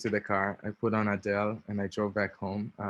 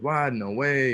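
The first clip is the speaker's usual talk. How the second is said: surprised disbelief; 4 semitones higher, 4 dB louder, slower than usual. Retold or imitated. Friend shocked by coming out.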